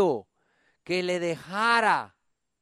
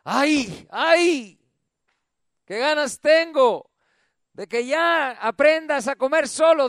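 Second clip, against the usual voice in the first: higher, louder mock sighing mother; exasperated mother; 6 semitones higher, 6 dB louder, slower than usual. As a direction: whine it like a tired mum. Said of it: "Las madres dicen". (madre cansada, quejándose en tono alto)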